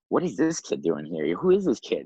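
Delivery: mock baffled teammates, pitch jumping up; imitated incredulity. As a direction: question the newcomer in puzzled disbelief. Teammates doubting the young newcomer.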